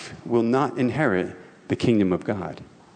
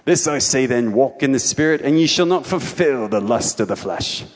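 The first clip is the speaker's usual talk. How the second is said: King James read in an English accent, louder; 4 dB louder than usual. Shown as a demonstration. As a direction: put on an English accent for the verse. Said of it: "I read it with the English accent".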